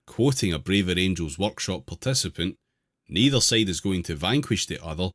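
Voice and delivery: measured reading aloud of an article. Real, not acted. Host reading an article to the group, measured read-aloud. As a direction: read it out clearly, phrase by phrase.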